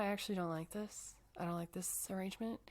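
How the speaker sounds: conspiratorial hushed whisper. Retold or imitated. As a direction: whisper it like a plot. Mutinous crew voiced.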